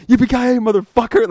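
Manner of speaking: high, loud imitation of a catchphrase yell; hammed-up action-hero shout; Bruce Willis. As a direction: belt it out as if grabbing the mic. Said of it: "Bruce Willis grabs the mic and goes".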